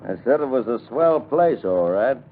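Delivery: said up clearly so he hears. Acted. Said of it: "What'd you say?".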